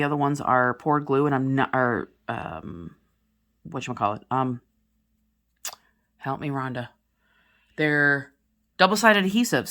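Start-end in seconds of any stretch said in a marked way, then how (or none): none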